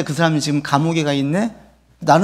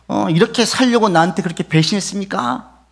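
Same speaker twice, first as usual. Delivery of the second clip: mock confronting; 7 semitones higher, 4 dB louder than usual. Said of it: "막 따지는 거예요".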